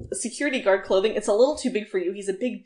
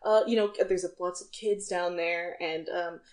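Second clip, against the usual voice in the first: concerned guard; 6 dB quieter than usual. Acted. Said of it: "looks concerned and says".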